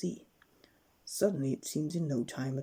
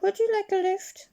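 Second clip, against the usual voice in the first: trumpeting elephant; 8 dB louder than usual. Acted. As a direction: blast it out like through a trunk. Elephant offers a ride.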